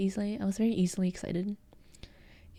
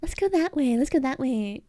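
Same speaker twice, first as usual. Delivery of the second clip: higher, louder, eager; excited high voice; 5 semitones higher, 4 dB louder than usual. Shown as a demonstration. Streamer demos her excited gaming voice, higher and louder. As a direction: bounce it out like you're hyped. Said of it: "I start talking like that".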